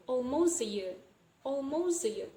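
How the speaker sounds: "almost" said as "almos"; silent T. Shown as a demonstration. Teacher demonstrating a rule, "almost" said without its T. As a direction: drop the T from "almost" before "a year". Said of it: "the T sound in this clause".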